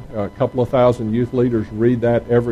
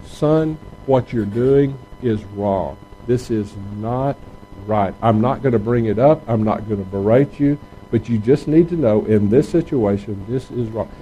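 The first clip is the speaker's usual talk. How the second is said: a parent gently telling a son he is wrong; gentle correction. Shown as a demonstration. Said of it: "you would very gently say".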